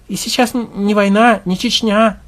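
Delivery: high, loud, desperate protest; grieving husband insisting, voice up. Acted.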